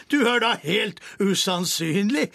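giggling king, amused; cackling king. A narrator's reading. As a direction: chortle it out holding your belly. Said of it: "knegget kongen mens han ... lo".

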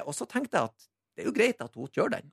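ordinary delivery

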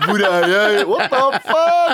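high, rising comic confusion; mock bewilderment. Confused friend in the earpiece skit, high mock bewilderment. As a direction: act lost, stretching out the last words.

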